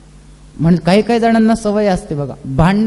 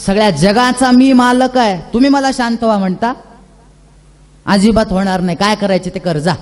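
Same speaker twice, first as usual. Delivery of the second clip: defiant rage. Acted. Narasimha defiantly refuses, enraged.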